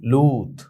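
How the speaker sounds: লূত with a long "oo"; long u vowel. Shown as a demonstration. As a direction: stretch the "oo" in লূত. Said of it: "দীর্ঘকারের উচ্চারণ". (লূত-এ ঊ টেনে বলা)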